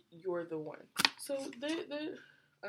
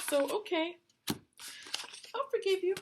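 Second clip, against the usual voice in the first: reluctant forgiveness; 11 semitones higher, much slower than usual. Retold or imitated. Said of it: "They could just be like".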